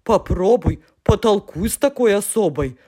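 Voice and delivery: a lightly voiced fussy little character; hint of a put-on voice; mumbling soft sign. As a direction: grumble it like a weary sceptic. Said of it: "вдруг промямлил мягкий знак".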